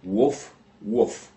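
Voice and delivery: dog bark imitation. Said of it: "The dog barks twice".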